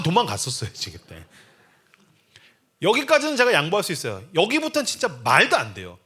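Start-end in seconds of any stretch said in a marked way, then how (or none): none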